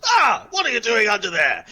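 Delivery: high, loud startled question; surprised discovery. Acted. Warrior finally notices slime under table, surprised. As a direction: exclaim it as you spot them. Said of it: "He'll finally notice you and goes".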